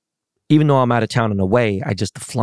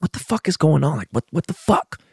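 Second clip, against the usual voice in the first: exasperated disbelief; 6 semitones higher than usual. Retold or imitated. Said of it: "And I'm like".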